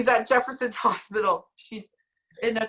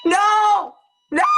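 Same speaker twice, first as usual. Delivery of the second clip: anguished cry; 8 semitones higher, 8 dB louder than usual. Acted. Reacting to Margaret dying.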